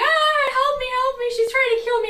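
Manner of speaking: mock, loud, panicked sobbing, help drawn out. Retelling what she cried out after breaking the bathroom door, imitating someone crying. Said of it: "she starts crying, going".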